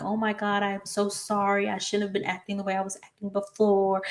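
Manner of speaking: high, soft mock-sorry voice; fake apology. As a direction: imitate her fake sweetness. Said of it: "she's acting all like".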